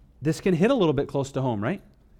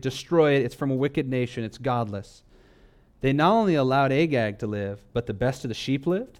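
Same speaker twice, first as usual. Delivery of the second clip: ordinary talk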